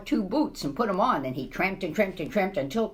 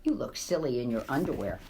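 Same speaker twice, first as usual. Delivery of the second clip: laughing wife; 8 semitones lower, 3 dB quieter than usual. Acted. Wife teases husband.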